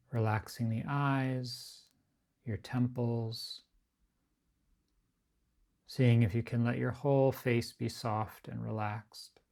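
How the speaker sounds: unhurried, evenly pitched body-scan guidance, phrase by phrase; guided meditation. Acted. Teacher guiding a group to relax the body, guided meditation.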